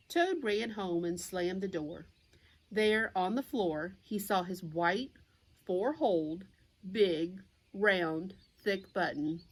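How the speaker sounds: clear, lively picture-book narration; reading to children. A narrator's reading. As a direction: read it out to little listeners.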